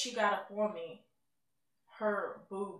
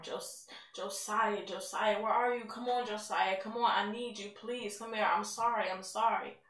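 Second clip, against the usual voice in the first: retold desperate screaming; 4 dB louder than usual. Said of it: "just screaming and I'm crying".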